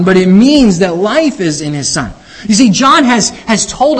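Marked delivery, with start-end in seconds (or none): 0.0-2.1 means set against mandates, stressed, falling. Shown as a demonstration. Preacher contrasting mandates and means, stressing means. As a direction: hit the word means hard against mandates. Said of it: "It mandates that you believe on his Son".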